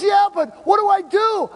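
put-on high, loud, worried young man; anxious Jack. Jack asking the pastor what to do, anxious. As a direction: plead for help, half-mock.

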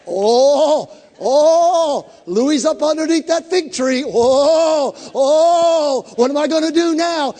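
high, loud, thrilled "oh, oh"; excited Jesus voice. Retold or imitated. Preacher voicing Jesus spotting Nathanael, thrilled and loud. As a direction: gush with eager delight. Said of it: "He's like".

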